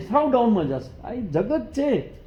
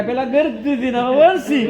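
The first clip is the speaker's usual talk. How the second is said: wry punchline; 6 semitones higher, 6 dB louder than usual. Retold or imitated. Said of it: "તો કે".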